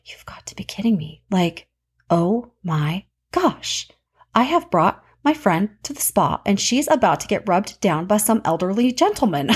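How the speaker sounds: hushed, stunned whisper; a shocked whisper under the breath; whispered aside. Retold or imitated. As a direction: whisper it so the masseur can't hear. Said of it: "I was freaking out in my head".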